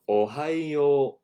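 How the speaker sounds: Ohayo then pause, then slow gozaimasu; broken down. Shown as a demonstration. Teacher breaks the greeting into parts slowly. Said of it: "We'll break it down".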